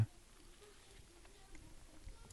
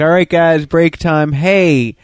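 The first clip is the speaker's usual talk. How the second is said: lightly voiced boss rallying the workers, a bit louder; mock announcement to the crew, slightly raised; Willy Wonka; 3 semitones higher, 5 dB louder than usual. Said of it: "then he's like".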